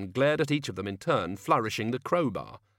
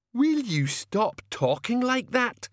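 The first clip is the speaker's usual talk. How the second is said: much higher, slow, loud shout; furious shout; 14 semitones higher, 4 dB louder, slower than usual. Acted. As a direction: yell at him to stop. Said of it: "shouted Medium Dave".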